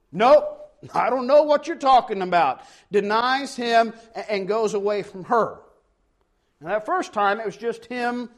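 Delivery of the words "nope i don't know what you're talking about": louder, higher brush-off as Peter; emphatic denial. Acted. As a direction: act out a loud denial. Peter denying the servant girl's accusation.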